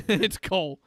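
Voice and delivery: lightly voiced mall Santa, a bit scratchy. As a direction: play a grumpy smoker Santa, only slightly put on. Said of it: "It's a very scratchy voice Santa".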